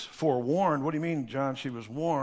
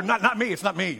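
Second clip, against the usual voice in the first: defensive denial; 3 semitones higher, 3 dB louder than usual. Retold or imitated. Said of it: "began to say to him".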